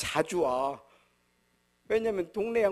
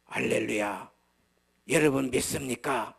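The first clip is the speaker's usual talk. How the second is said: revival preacher imitation; 4 semitones lower, 3 dB louder than usual. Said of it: "막 이래야 되는데 나는 그건 절대 못 하겠어요".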